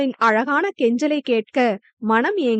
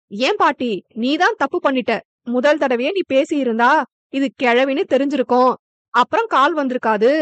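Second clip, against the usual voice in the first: mocking; faster than usual. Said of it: "என நக்கலாக கூற".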